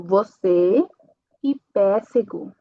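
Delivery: você and pêssego with a closed ê; closed E demo. Shown as a demonstration. Teacher showing students the closed E, carefully spoken. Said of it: "vai ser E fechada".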